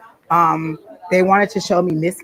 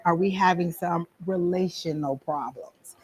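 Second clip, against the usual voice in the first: whisper; 6 dB quieter, slower than usual. Retold or imitated. Quoted gentle question to client.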